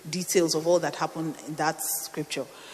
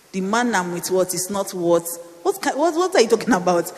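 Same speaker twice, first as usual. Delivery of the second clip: agitated, stumbling protest that gets louder; upset; 5 dB louder than usual. Retold or imitated. Preacher re-enacting her argument with God, upset. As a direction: re-enact baffled outrage, rising in pitch and volume. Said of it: "I was so upset".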